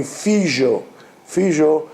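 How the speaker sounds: "fijo" said FEE-zho; Greek Ladino pronunciation. Shown as a demonstration. Teacher showing Greek Ladino for son, "fijo" with ZH. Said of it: "Ladino of the Greeks will be".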